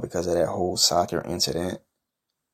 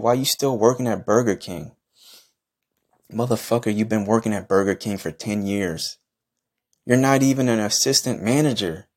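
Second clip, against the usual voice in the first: heated trash talk; 3 semitones higher than usual. Acted. Taunting the Birmingham Strangler over his Burger King job, heated higher-pitched trash talk. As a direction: pitch climbing higher, mocking a rival in a heated rant. Trash-talking online rival, rising rant.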